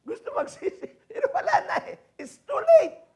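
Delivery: high, half-laughing lament; mock regret. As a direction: play the too-late regret lightly. (pabirong pagsisisi)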